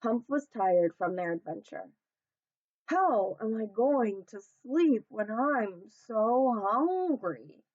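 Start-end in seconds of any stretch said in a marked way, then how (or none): 2.9-7.6 sniffing. Acted. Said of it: "he sniffed".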